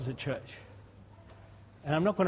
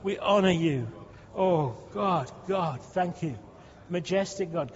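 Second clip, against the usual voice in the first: fervent spoken praise, louder on key words; praise prayer; 3 dB louder than usual. Acted. Pastor leading praise before the congregation, fervent. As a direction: lift praise to God in earnest.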